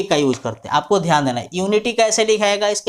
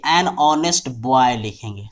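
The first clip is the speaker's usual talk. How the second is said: drawn out, word by word; slow dictation; 5 semitones lower, much slower than usual. Shown as a demonstration. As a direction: say it slowly for copying. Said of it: "an honest लिखेंगे".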